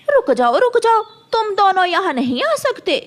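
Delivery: high loud shout; loud high order to halt; shouting stop. Acted. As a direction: call out loud to stop them. Crow shouts children away.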